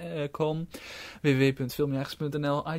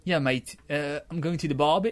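Australian accent; 5 dB louder than usual. Shown as a demonstration. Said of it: "Wat vind je van het Australisch accent?".

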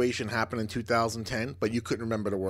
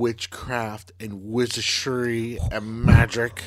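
mock spooky; 3 dB louder, slower than usual. Mocking spooky dark-arts words.

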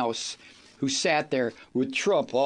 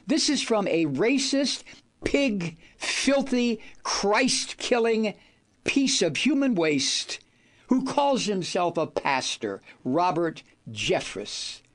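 raised, slow, contemptuous insults spat out word by word; scornful rant; 3 semitones higher than usual. Real, not acted. Radio host denouncing a pastor, slow and scornful. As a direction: pile the insults on with disgust.

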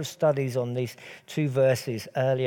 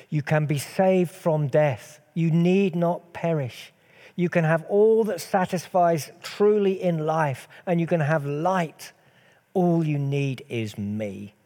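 rising, louder preacher's appeal, slow at first; impassioned preaching; 4 semitones higher, 5 dB louder than usual. Acted. Preacher voicing Jesus to the congregation, rising impassioned appeal. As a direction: build it into a fervent plea for the congregation.

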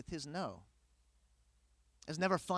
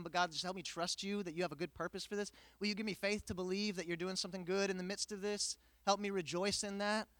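calm trusting prayer; faster than usual. Retold or imitated. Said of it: "I could have said".

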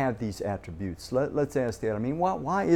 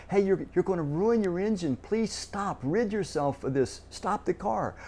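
caring warning; 6 semitones higher than usual. Retold or imitated. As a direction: urge them gently, like a worried parent. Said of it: "It's giving you a warning".

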